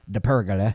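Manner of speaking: "pergola" said carefully as PER-guh-la; corrected pergola. Shown as a demonstration. Retelling after being teased, "pergola" as PER-guh-la. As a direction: stress the first syllable of "pergola". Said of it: "Is a pergola like a pergola?".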